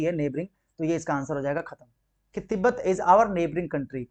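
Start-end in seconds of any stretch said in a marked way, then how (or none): 2.3-4.0 slow reading. Shown as a demonstration. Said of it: "reading the corrected sentence".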